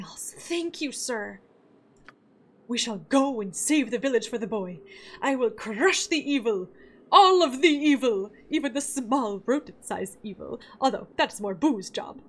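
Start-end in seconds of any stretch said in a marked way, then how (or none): 2.7-10.6 a hint of a bold heroic ranger, louder on all of the evil; voicing a heroic ranger. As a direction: proclaim like a simple brave warrior. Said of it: "Voice acting".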